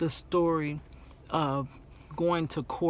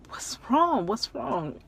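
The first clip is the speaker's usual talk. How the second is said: alarmed questioning; 6 semitones higher than usual. Retold or imitated. Alarmed reply to crying caller.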